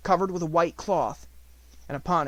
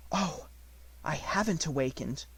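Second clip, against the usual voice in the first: whispered; 6 dB quieter than usual. Acted. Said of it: "she whispered".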